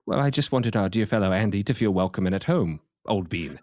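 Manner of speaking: unconvincing put-on British gent; pretentious British accent. Host excusing himself to his co-host, in a pretentious British accent. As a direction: keep up the bad British accent. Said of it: "you're not pulling it off".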